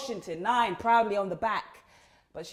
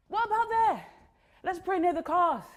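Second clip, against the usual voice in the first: eager suggestion; 6 semitones higher than usual. A narrator's reading. Narrator voices her eager suggestion.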